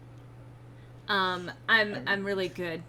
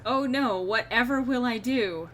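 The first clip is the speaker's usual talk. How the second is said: hammed-up, sarcastic lament; mock dismay; 4 dB louder than usual. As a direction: play helpless despair over a trifling loss. Mock lament over one lost coin.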